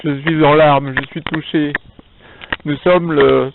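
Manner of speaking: cathedral echo. Real, not acted. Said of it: "si ça résonne ici".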